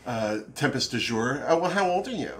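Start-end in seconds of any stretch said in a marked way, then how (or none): 1.5-2.3 dismissive. Retold or imitated. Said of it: "so dismissive".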